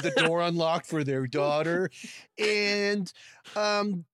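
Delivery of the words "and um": surfer voice. Pretend. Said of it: "that's Jeff Spicoli".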